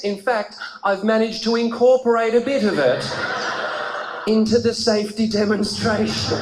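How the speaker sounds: retold stewardess, emphatic and measured; lightly voiced, emphatic flight attendant; stewardess announcing. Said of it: "She said".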